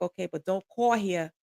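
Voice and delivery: mild imitation of a strong Philadelphia accent. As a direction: imitate her Philadelphia accent, a little firm. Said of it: "she had this strong accent".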